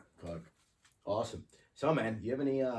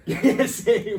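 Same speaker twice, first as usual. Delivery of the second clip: laughing; 12 semitones higher, 14 dB louder than usual. Real, not acted. Laughing at weeks of delay.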